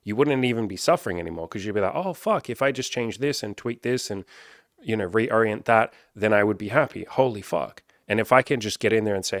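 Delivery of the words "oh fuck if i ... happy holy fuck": mock eureka. Imagined client's sudden realization.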